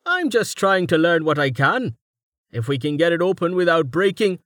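high-pitched character voice; studious scholar. A narrator's reading. Roma's put-on character voice.

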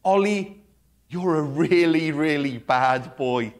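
gentle sing-song scolding, no bite; nice kind tone. Shown as a demonstration. Pastor to his dog Ollie, sweet kind tone. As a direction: tell the dog off sweetly so he wags. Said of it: "in a nice, kind tone".

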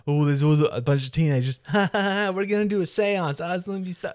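put-on high, giggly teenager send-up; mock teenagers. Mocking film teenagers planning a seance, high mock-giggly voices. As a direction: squeal it like silly, excited teens.

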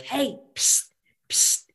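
high squeaky little nag; nagging reminder voice. Pretend. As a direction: hiss it like a pesky reminder in your ear. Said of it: "someone kind of walking alongside you being like".

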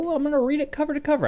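very high, fast, excited squeal; put-on giddy high voice; gushing fan. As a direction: gush it like a thrilled fan.

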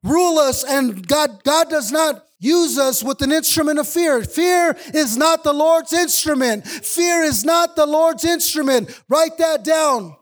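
driving pulpit voice, building conviction; fervent preaching. Acted. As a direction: preach it to the congregation with fire. Preaching at full force.

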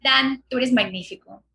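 Spanish with a light Colombian accent. Shown as a demonstration. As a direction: speak Spanish the Colombian way, on request. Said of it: "este acento es un poquito más colombiano".

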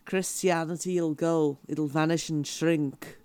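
mild pop-star-style Scouse impression; not-too-thick Liverpool lilt, recalling the words; Liverpool accent. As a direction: quote it in a light Liverpool accent. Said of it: "I'm impressed with your Liverpool accent".

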